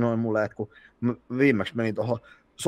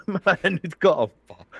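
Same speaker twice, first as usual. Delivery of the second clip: mock voice; 9 semitones higher, 4 dB louder, slower than usual. Mocking reply in higher voice.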